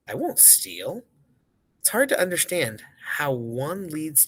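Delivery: expressive, measured storytelling delivery; poem read aloud. A narrator's reading. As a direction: read the verse aloud with emphasis. Reads next poem aloud.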